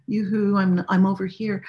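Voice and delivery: hammed-up yoo-hoo call. Shown as a demonstration. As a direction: call across the room, playful. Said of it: "No, no, no".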